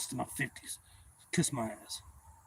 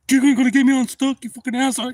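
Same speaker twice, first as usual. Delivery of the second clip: high, loud furious yell; angry yell; 11 semitones higher, 12 dB louder than usual. Retold or imitated. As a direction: bellow it at the boaters. Angry old man yelling at boaters.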